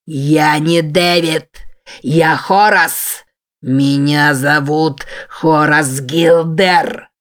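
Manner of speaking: slow, drawn-out beast's voice; the monster roars its true name, slow and heavy; monstrous roar. Acted. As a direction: roar it slowly, each word dragged out. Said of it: "Зверское лицо гневно заревело".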